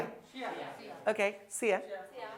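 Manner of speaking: सिया, see you run into one word; slurred see you. Shown as a demonstration. Teacher showing how movie characters say see you. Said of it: "sound आती है सिया".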